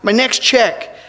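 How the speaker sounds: lightly acted begging; appealing. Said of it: "he appealed to him and said".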